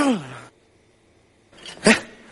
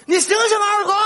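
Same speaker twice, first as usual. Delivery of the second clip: high-pitched, desperate calls to unresponsive friends; high pleading calls; calling out; 7 semitones higher, faster than usual. Acted. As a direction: cry out to rouse them, pitched well up. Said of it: "别喊了".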